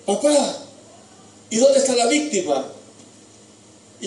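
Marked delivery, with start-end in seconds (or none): 0.1-2.7 pleading son. Acted. Boy Isaac asks his father.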